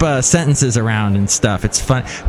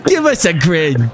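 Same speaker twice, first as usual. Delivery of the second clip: put-on British accent; 2 semitones higher than usual. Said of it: "British accent right now, but".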